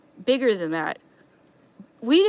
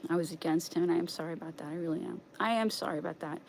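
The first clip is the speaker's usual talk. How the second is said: sincere apology; 4 semitones lower, 11 dB quieter, faster than usual. Real, not acted.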